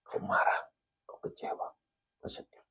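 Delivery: fading whisper; God gently naming his feelings, whispered; whispered divine voice. Retold or imitated. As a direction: breathe it softly, almost gone. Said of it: "kedua kali dan ketiga kali".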